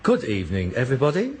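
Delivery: low, mock-solemn spirit voice; Henry the Eighth. Son mocks a spirit at the seance, low host voice. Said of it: "And this voice says".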